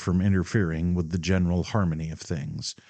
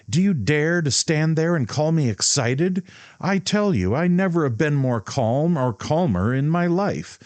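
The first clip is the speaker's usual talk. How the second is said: higher, louder angry tirade; storming; 6 semitones higher, 4 dB louder than usual. A narrator's reading. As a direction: rant at her, offended. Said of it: "he stormed".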